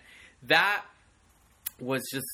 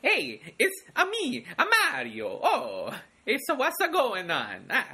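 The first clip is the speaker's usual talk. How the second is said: higher, laughing cartoon Italian plumber; Mario voice; 8 semitones higher than usual. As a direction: ham up a jolly video game hero. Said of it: "it does sound like that".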